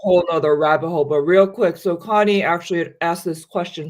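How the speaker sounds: talking with a mouth full of food. Real, not acted. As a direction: speak through a mouthful. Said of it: "Sorry, I'm speaking with my mouth full".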